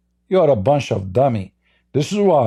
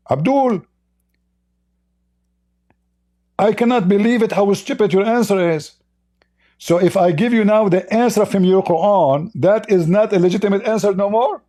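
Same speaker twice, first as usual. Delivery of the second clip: higher, scornful scolding; indignant outburst; 4 semitones higher than usual. Real, not acted. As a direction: tear into him in disbelief. Heated debate, scolding caller Abdul.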